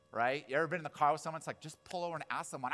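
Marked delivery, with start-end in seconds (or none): 1.6-2.7 higher-pitched exasperated urging; mock passenger nagging; exasperated plea. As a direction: plead with the stubborn driver. Car argument over asking directions.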